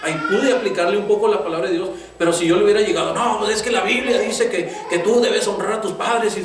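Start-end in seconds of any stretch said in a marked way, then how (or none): 3.1-6.4 higher-pitched, mildly scolding father; mock preachy scolding. Father confronting his son with the Bible, mock scolding. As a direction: lecture him with the rulebook, pitched up.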